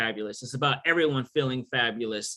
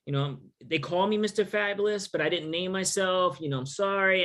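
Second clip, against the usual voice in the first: apologetic; 4 semitones higher than usual. Retold or imitated. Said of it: "I would almost apologize".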